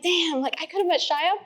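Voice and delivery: high-pitched regretful whine; upset. Retold or imitated. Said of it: "I was so upset".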